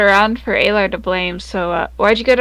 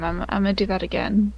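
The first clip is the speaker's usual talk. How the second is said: whispering; 3 semitones lower, 7 dB quieter, faster than usual. Real, not acted. Player suddenly whispers plan.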